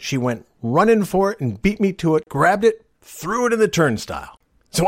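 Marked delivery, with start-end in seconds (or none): none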